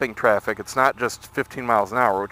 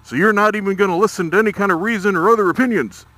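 upset; 5 semitones higher, faster than usual. Retold or imitated. Upset seller arguing with a customer over the refund, higher and fast. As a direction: push back quickly and indignantly. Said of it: "And he gets upset".

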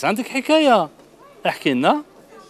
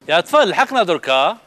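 calling out; 4 semitones higher, 5 dB louder than usual. Real, not acted. Presenter calls to the children.

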